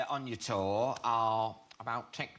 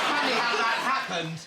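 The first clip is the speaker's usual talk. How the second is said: dry sarcasm; 8 semitones higher, 7 dB louder than usual. Retold or imitated. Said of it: "and you're like".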